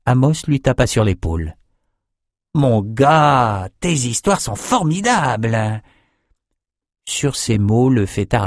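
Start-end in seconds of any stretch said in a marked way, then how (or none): 2.5-5.8 slow, hammed-up friendliness; badly faked warmth. Drinker Amos flattering Bannon, badly faked slow cordiality. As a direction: fake cordial pat on the back. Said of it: "Avec une cordialité mal feinte".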